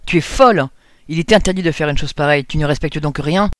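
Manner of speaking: loud outraged reproach that settles down; indignant scolding. Acted. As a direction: scold her like a shocked priest. Priest scolds Claire.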